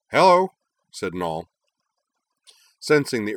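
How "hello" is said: high, loud bright hello; cheerful greeting. A narrator's reading. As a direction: pop up with a chirpy hello.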